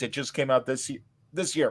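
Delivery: burp while talking; words caught by a burp. Real, not acted. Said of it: "Pardon me, I'm burping".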